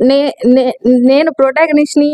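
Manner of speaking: halting, mildly sheepish admission; retold awkward confession with a stutter; embarrassed stammer. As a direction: stumble on the first word, then get it out slowly. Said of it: "చాలా embarrass గా feel అవుతూ".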